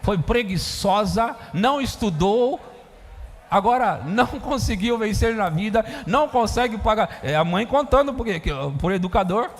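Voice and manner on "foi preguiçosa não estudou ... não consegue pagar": mock son taunting his mother; mocking insult. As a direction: sneer at her for failing in life.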